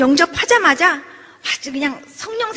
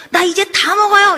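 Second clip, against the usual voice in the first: higher, louder, drawn-out happy announcement; excited announcement; 7 semitones higher, 6 dB louder than usual. Retold or imitated. Recovered patient phoning the speaker with good news, excited. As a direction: announce it slowly and proudly, voice lifted.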